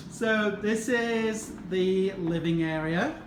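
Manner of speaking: slow, half-hearted Texas drawl; attempted Texas accent. Shown as a demonstration. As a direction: stretch it out in a mild Texas accent. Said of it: "try and do my Texas accent".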